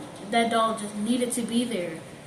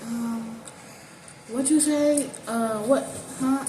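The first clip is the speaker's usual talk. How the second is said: halting, mock-confused questions; acted confusion; slower than usual. Girl stalling her grandma on the phone, feigned confusion. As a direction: play dumb, stalling between short questions. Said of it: "So I was confused".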